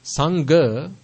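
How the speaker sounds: "Sangha" with a plain g, rising at the end; mispronounced "Sangha". Shown as a demonstration. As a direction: say "Sangha" as sang-ga. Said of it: "that is Sang".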